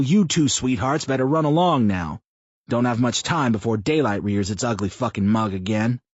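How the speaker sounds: a foul-mouthed blowhard pitching an idea; crude loud man. A narrator's reading. Mouth pitches a rally to Sam, loud brash rough voice.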